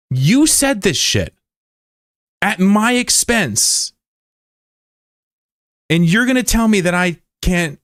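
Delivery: high-pitched heated scolding, slowing on key words; angry confrontation. Real, not acted. Streamer telling off Spooky for needling him, angry and high. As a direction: tear into the chatter who mocked you.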